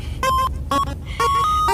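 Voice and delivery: airy giggle up high; wheezy laugh at herself; unvoiced high laugh. Real, not acted. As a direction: let a breathless giggle escape. Strawberries in face.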